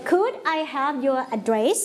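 put-on teacher modelling a rising question for kids to repeat; rising question tune. Shown as a demonstration. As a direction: pitch rises at the end of "address?". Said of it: "คุณนกขึ้นเสียงอย่างไรคะ ท้ายประโยค".

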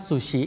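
"ซูชิ" said the Japanese way; Japanese-style "ซูชิ"; Japanese pronunciation. Shown as a demonstration. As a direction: say "ซูชิ" with short Japanese syllables. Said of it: "คนญี่ปุ่นเรียกว่า".

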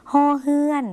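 "ฮอเฮือน" เสียงสูงชัด ขึ้นต้นด้วยเสียง ฮ แบบ ฮ นกฮูก; สาธิตชื่ออักษรลาว. Shown as a demonstration. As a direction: say "ฮอเฮือน" high and measured, with an h sound as in Thai. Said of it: "ออกเสียงเหมือนฮอนกฮูกในภาษาไทย". (ออกเสียง "ฮอเฮือน" สูง ชัด ด้วยเสียง ฮ แบบไทย)

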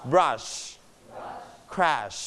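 "brush", "crash" ending in a long sh. Shown as a demonstration. Teacher models words for the class, long sh on "brush", "crash". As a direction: stretch the final sh of "brush" and "crash". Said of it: "เอช เอช จะเสียงยาวนะครับ".

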